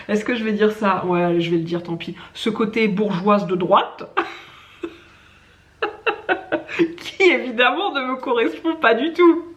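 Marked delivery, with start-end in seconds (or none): 2.3-4.1 slow words through a giggle; laughing while saying it. Real, not acted. Aveu gêné, rit en le disant. 5.8-6.9 high-pitched burst of laughter. Real, not acted. Rire après l'aveu. 7.0-9.4 loud, high, still laughing. Real, not acted. Dément en riant.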